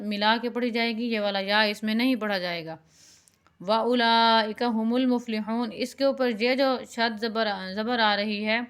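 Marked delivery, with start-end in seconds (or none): 3.6-5.7 واولئک with a lengthened laa; stretched madd. Shown as a demonstration. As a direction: hold the laa in واولئک, then carry on to المفلحون. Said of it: "مد زبر کے برابر جو ہے نا کھینچنا ہے".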